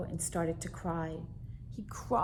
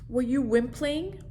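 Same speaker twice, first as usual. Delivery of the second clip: little monster voice; 5 semitones higher, 6 dB louder than usual. Acted. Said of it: "said Monster".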